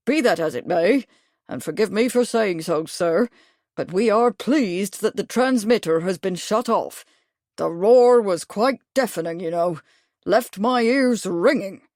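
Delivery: a hint of a fussy old English officer; lightly voiced old Major. Old Major to Bradford, a touch of bluff officer voice. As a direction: bluff colonial gent, mildly put out.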